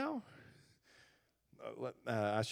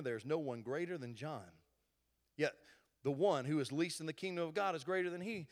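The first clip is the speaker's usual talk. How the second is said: scripture reading; 2 semitones lower than usual. Acted. Pastor reading scripture to the church, calm and measured. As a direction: read the passage plainly to the congregation.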